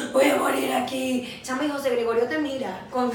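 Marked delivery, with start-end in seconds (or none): 0.1-1.4 slow, louder, stretched-out lament; hammed-up last words; mock dying moan. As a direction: drag it out as if expiring, playfully. Re-enacts fainting after tooth extraction.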